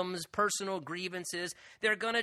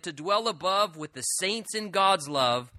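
quoted rhyme; 5 dB louder than usual. Retold or imitated. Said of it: "one man said this".

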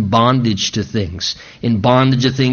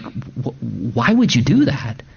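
pleading disbelief; 4 semitones higher than usual. Acted. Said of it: "as much as almost a sense of, like".

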